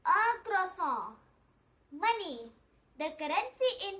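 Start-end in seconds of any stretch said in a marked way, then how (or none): 0.0-1.1 "un croissant" said slowly and carefully; slow model word. Shown as a demonstration. Teacher having students say it together, slow and careful. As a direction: stretch out "un croissant" for learners to copy. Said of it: "Let's say".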